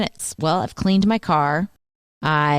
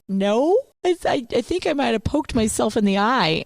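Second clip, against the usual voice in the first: lightly voiced daughter; 6 semitones higher than usual. Voicing daughter denying she cries.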